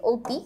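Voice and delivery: "অতি" said as "oti", with a closed o; closed initial vowel. Shown as a demonstration. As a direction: start "অতি" on an ও sound. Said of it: "স্বরেয় ধ্বনির উচ্চারণটা সংবৃত". ("অতি"-র অ সংবৃত, ও-এর মতো)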